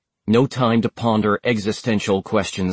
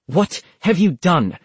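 through her teeth; 7 semitones higher than usual. A narrator's reading. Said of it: "asked through her teeth".

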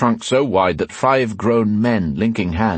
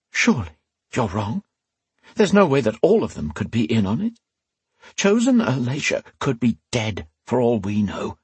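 whispered fury; 4 semitones higher than usual. Acted. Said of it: "Rian whispered harshly".

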